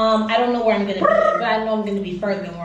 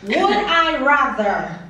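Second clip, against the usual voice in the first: drawn-out; 2 semitones higher, much slower than usual. Acted. Reading quiz options with suspense.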